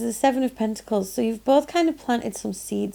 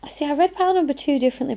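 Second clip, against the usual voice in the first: talking to herself; 5 semitones higher, much faster than usual. Real, not acted. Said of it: "that's just me talking to me there".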